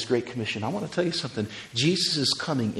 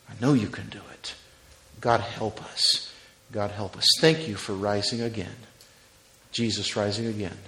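closing prayer; 2 semitones lower than usual. Acted.

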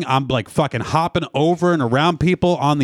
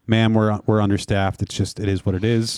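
weary TSA agent; 5 semitones lower than usual. Retold or imitated. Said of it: "And he's just saying".

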